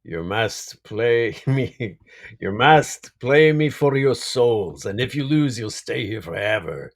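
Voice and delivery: a hint of slow, looming Grim Reaper; lightly voiced menacing Death, drawn out; slow spooky Reaper challenge, lightly done. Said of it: "you know".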